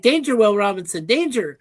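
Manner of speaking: imitating a clunky robot voice; lightly voiced old TV robot. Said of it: "you were going like".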